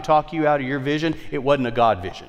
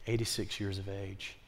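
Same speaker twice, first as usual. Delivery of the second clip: hushed awe; 5 semitones lower, 15 dB quieter than usual. Acted. Marvelling at her age, hushed.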